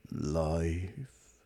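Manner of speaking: bitter robot echo; depressed robot voice; gloomy robot. Acted. Marvin's voice.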